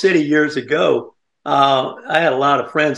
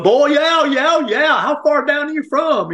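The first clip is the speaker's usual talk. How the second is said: much higher, amused imitation of the women; mimicking the ladies; 12 semitones higher than usual. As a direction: play the charmed ladies teasing him, pitched way up. Mimics stars reacting to his accent.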